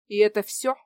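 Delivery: loud, sarcastic jab. Acted. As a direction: needle him with the question. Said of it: "язвила она".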